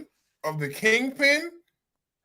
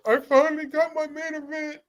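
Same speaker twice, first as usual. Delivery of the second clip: higher, mocking whine of a wrestler; mocking Punk; 8 semitones higher than usual. Mocking Punk's whiny line to the co-host, higher. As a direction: sneer at a wrestler who got his wish. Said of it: "Punk ain't been crying".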